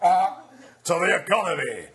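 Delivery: halting, hesitant politician with stretched uhs; Gordon McBroom impression. Comedian mimics the prime minister's halting speech. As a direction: drag out the uhs like a fumbling leader. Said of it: "to do an impression of that".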